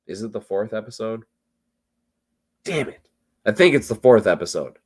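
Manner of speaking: a little tipsy and rambling. Real, not acted. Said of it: "I'm tipsy".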